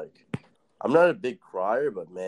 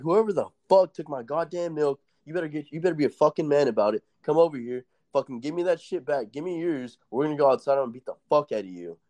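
higher, heated retold rant; mock angry threat; 6 semitones higher than usual. Inmate challenges whoever took his milk, mock angry rant. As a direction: threaten the thief, hammed up.

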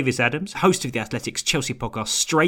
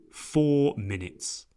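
echoing stadium announcer; 5 dB quieter, much slower than usual. Retold or imitated. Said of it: "such a stadium announcery voice".

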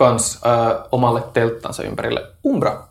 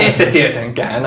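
dry slow sarcasm. Acted. NPC repeats it slowly.

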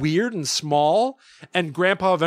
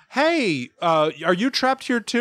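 put-on higher-pitched baby character voice; raised, questioning kid voice; cartoon baby Tommy; 6 semitones higher than usual. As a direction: voice a toddler hopefully addressing a parrot. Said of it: "He eventually meets a parrot who he's like".

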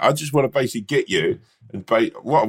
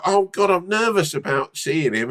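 mock nervous Rom; 7 semitones higher than usual. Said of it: "And then you'd be like".

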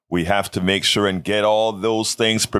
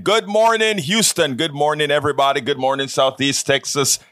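cheerful greeting; 5 semitones higher, faster than usual. Real, not acted. Host's cheerful on-air greeting.

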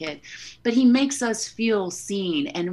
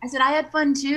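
raised repeat for listener; 7 semitones higher, faster than usual. Real, not acted. Repeating after host missed it.

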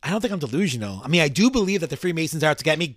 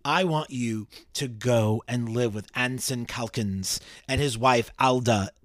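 slow, measured dramatic reading; formal letter reading; 2 semitones lower, slower than usual. Acted. Condemned father writing to his daughter, slow formal reading. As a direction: read it out with mild solemnity, unhurried.

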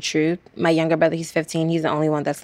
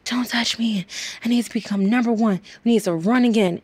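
distraught; 5 semitones higher than usual. Retold or imitated. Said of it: "so full of emotion".

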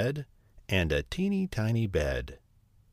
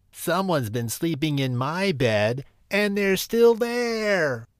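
put-on crying out Baby Bear; 7 semitones higher than usual. A narrator's reading. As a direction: cry it out high as a tiny bear. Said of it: "he cried".

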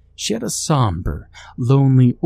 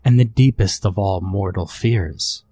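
low rasping voice. Acted. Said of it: "she spoke in a low, rasping voice".

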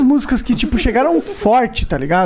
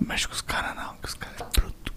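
whispering; 16 dB quieter than usual. Acted. Joking warning to friends.

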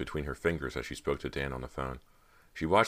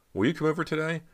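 pleading; 13 semitones higher, faster than usual. A narrator's reading. Carter begs Dan for support.

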